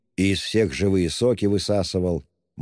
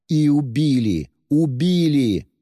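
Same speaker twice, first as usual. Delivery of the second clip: high, louder, anguished outburst; tormented outcry, higher and louder; anguished cry; 8 semitones higher, 5 dB louder than usual. A narrator's reading. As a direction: cry it out in torment, slowing on the repeat. Anguished confession.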